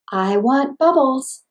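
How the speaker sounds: slow, evenly paced words; slow syllable-tapped phrase. Shown as a demonstration. Therapist modeling a phrase for a child, slow paced speech. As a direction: tap out each word slowly. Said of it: "teach words and phrases like".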